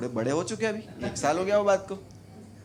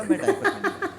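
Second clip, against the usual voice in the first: put-on much higher, squeaky little-kid voice; earnest small boy promising; kid's voice; 6 dB louder than usual. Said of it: "भूरा बोला".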